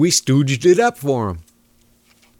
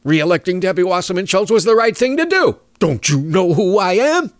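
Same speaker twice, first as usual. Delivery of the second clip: arrogant attitude; 6 semitones higher than usual. Retold or imitated. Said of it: "same attitude".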